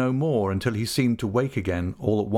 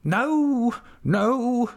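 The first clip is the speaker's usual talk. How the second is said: put-on much higher, louder wailing old woman; crying widow; 3 dB louder than usual. Old widow begging Dan'l not to leave, high and tearful. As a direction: cry out to stop him, near sobbing. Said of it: "in a fit of crying".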